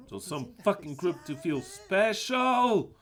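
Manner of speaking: indignant, stretching out "special"; angry scorn. Real, not acted. Preacher scorns a group wanting to feel special, angry.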